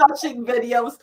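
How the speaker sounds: high laughing shriek. Real, not acted. Laughing fit over joke.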